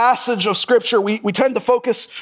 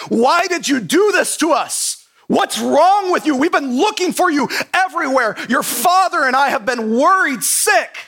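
exasperated mother; 5 semitones higher than usual. Retold or imitated. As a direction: scold like a worried mother who finally found her son. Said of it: "Mary, exasperated, is like".

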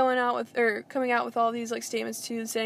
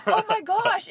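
mock fake-upset apology; 7 semitones higher than usual. Mocking his fake apology to Caitlyn, high and whiny. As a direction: parody a man pretending to be hurt. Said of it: "he's trying to act so upset".

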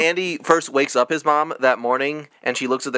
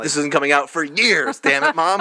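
put-on exasperated kid; 2 semitones higher than usual. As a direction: gripe at mom, pitch leaping up on the last words. Acting out angry child to mom.

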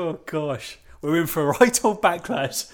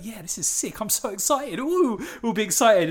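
excited; 6 semitones higher than usual. Acted. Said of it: "Are you excited?".

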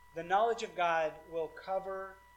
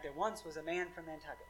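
"there once was a man from Nantucket" in an understated, bouncing verse meter; sing-songy; 6 dB quieter than usual. Shown as a demonstration. Preacher showing how English poetry flows, "there once was a man from Nantucket" sing-songy. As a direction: lilt lightly through "there once was a man from Nantucket" in limerick rhythm. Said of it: "like, this sing-songy way".

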